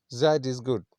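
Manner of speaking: put-on "That" as "zat", foreign accent; imitating a foreign tourist's accent. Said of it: "that, there is Z".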